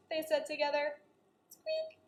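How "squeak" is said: tiny high soft squeaks; mouse squeaks. Acted. Peanut the mouse trying to help, tiny high squeaks.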